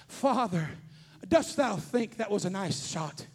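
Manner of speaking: lightly voiced prissy son, slow; a touch of stiff olde English; mock archaic son. Pastor imitating his son, slow mock archaic.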